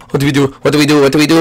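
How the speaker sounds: ordinary talk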